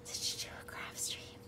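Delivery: mock-suspicious, hushed, voiceless conspiratorial whisper.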